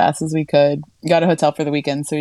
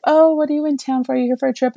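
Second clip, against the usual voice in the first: put-on friendly older women; 8 semitones higher, faster than usual. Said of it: "And they're like".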